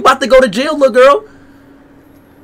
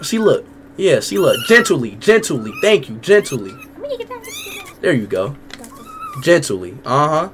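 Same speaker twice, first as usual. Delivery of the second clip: soft coaxing; 2 semitones lower, 7 dB quieter than usual. Real, not acted. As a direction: coax someone calm, softly. Coaxing softly.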